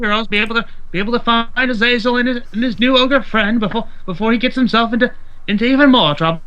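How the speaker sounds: put-on old-timey serial narrator voice; old-timey radio voice. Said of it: "working on my old-timey radio voice".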